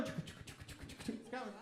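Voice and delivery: slow eerie whisper; ominous whisper. Pretend. Warning the audience that death approaches, slow whisper. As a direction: breathe it out like a threat.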